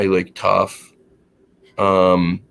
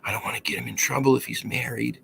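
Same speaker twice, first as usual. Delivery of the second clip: softer, hesitant aside to a friend; imitated female caller aside; 3 semitones higher, 6 dB quieter, faster than usual. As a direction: lightly mimic a woman checking with her friend. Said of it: "She's asking her friend".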